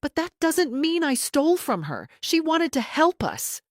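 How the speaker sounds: high, strained voice near breaking; pleading as the voice breaks; voice cracking. A narrator's reading. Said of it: "Jennifer's voice cracked".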